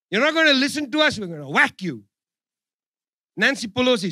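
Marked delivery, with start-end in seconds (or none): 0.1-2.1 mock mob threat; mafia godfather. Mocking Washington as a mafia boss threatening China. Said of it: "The gangster, the godfather, the mafia".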